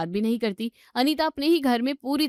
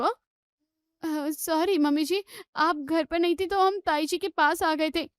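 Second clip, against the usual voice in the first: hesitant, higher-pitched excuse; stall, then explain in a raised pitch; nervous apology; 5 semitones higher, slower than usual. Acted. Caught daughter-in-law apologises to mother-in-law. (झिझकते हुए, ऊँचे सुर में सफ़ाई)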